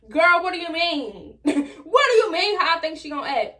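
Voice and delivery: laughing incredulous question, fast. Real, not acted. Teen laughing at her friends asking how mama will react. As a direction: laugh through the disbelief.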